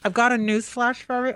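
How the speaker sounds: talking through a face mask; muffled voice behind a mask. Real, not acted. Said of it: "if I sound a little muffled".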